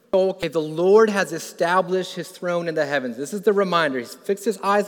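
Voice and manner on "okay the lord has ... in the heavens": a touch louder, declared with lift; uplifted proclamation. Retold or imitated. David speaking the verse as it dawns on him, uplifted. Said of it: "he says".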